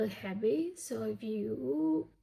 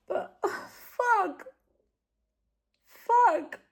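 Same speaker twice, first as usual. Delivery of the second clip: loud, high, frustrated outburst; real exasperated swearing; 9 semitones higher, 6 dB louder, slower than usual. Real, not acted. Vlogger reacting to the book's ending, a loud frustrated outburst. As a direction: let the swear burst out, pitched up.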